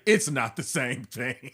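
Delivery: low, slow, drawn-out objection; deadpan Larry David. Retold or imitated. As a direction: imitate a curmudgeon insisting slowly, amused. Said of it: "And Larry's like".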